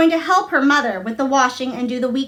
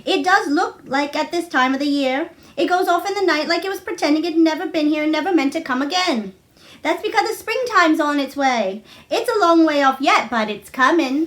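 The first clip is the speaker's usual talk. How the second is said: a cheerful Yorkshire maid, higher; bright housemaid voice, a bit higher; Martha, lightly voiced; 5 semitones higher than usual.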